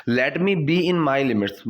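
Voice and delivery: very slow, careful teacher reading; slow model sentence. Shown as a demonstration. Teacher to students, slow clear model sentence. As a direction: lay out each word for learners. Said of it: "teacher models phrase".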